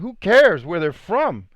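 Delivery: high, slow, exasperated Jesus voice; Jesus, dismissive. Acted. Jesus waving off his disciples, high and slow. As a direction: brush it off in a lofty, drawn-out tone. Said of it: "And Jesus is like".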